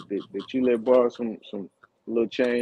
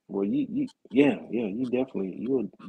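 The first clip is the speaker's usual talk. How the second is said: high, incredulous stammering; can't believe what he just heard; stunned disbelief; 13 semitones higher, 3 dB quieter than usual. Real, not acted. Friend reacting to the story in high disbelief.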